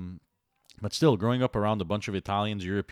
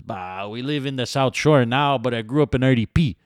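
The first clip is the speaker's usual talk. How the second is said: mock kid voice; 6 dB louder than usual. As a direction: drag it out like a bored teen. Imitating the kid.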